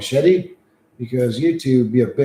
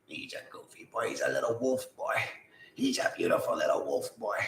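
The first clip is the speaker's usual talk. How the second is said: softer, tender pet talk; soft cooing; 10 dB quieter than usual. Real, not acted. Cooing to the wolf-like dog beside him, softer. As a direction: coo gently so the dog stays.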